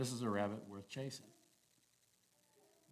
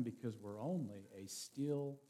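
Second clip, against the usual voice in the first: quiet; 7 dB quieter, slower than usual. Acted. Closing on still small voice.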